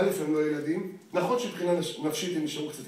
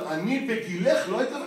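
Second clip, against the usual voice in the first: mocking the mother; 4 semitones higher than usual. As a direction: parrot her nagging line with a laugh. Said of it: "את כל הזמן".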